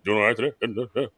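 low, subdued manager voice; Jim Leyland impression. Manager checking on his former player, low muted impression. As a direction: drop low and soft, imitating the skipper's greeting. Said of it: "That's how he talks".

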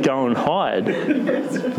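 laughing, slow, repeating the answer; amused, slow echo. Real, not acted. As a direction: chuckle through it, drawn out. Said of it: "How would you feel if that was happening to you?".

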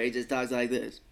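lightly voiced cartoon parody of an actor; a hint of South Park celebrity parody; Morgan Freeman. Shown as a demonstration. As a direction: demonstrate a rough cartoon star impression. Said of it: "I think I'm doing Morgan Freeman from South Park".

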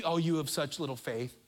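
not rebuking. Shown as a demonstration. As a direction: say it tenderly, without any reproach. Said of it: "This isn't me rebuking you".

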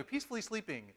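fast, matter-of-fact "peacefully sleeping"; restated quickly. Shown as a demonstration. Preacher hurrying past his own joke, fast and brisk. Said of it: "But anyway".

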